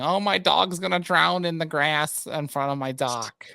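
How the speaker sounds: mock the complaining dock owner, drawn out; imitating an entitled Karen, slow and whiny; mock Karen whine. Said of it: "the Karen on our dock complaining".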